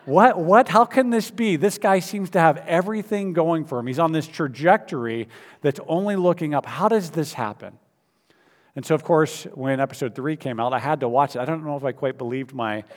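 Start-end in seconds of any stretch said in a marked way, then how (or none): 0.0-7.8 stunned fan protesting, pitched up; disbelief. Retold or imitated.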